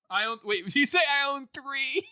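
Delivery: high, loud incredulous question; mock disbelief. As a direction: pounce on the boast in disbelief. Mock disbelief at friend's boast.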